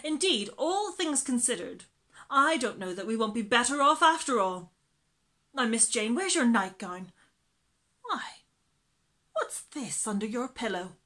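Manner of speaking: a loud, bustling housekeeper voice; chatty old nurse clucking over the children; fussy nursemaid. Acted. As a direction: scold and fuss like a busy nanny. Mrs Brill voiced in the story.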